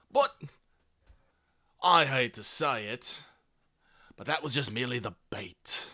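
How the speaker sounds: gravelly villain voice slipping into Australian; a hint of Australian in a gravelly address; drifting Australian accent. Claymore addressing the freed workers, slipping Australian. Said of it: "Why is Claymore Australian all of a sudden?".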